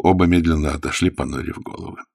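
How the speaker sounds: ordinary delivery, nothing marked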